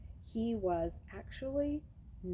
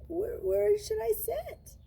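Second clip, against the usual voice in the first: high, slow and timid; scared small voice; 14 semitones higher, 5 dB louder, slower than usual. Acted. Luke timidly asks the teacher where to sit. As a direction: ask it like a frightened new boy. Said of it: "His voice wasn't much more than a whisper".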